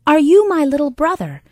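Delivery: eager little horse. Acted. Harry asks, hopeful.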